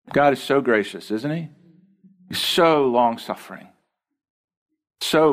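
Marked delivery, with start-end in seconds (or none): none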